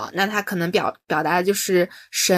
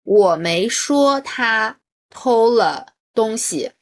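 slow, stressed reading; stress demo; 3 dB louder, much slower than usual. Retold or imitated. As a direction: spell out 我没说他偷了东西 slowly with weight on 说. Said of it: "他说的那句话说".

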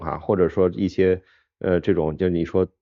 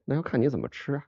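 softly laughing through the quote; 6 semitones higher, 6 dB quieter than usual. Retold or imitated. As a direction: giggle out the punchline. Retold official's answer, laughing.

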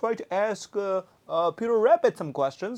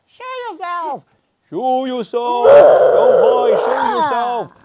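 louder, higher call to come out; commanding call; 5 semitones higher, 14 dB louder than usual. Pretend. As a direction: demand it show itself. Demanding hidden animal appear.

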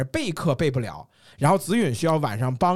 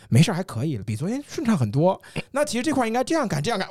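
patient coaxing. Retold or imitated. Retelling how he patiently coached the new teacher, gentle. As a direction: reassure him kindly, like a patient mentor. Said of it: "我特别耐心地说".

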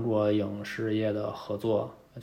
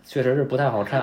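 laughing; 6 dB louder, faster than usual. Real, not acted. Laughing at bad show.

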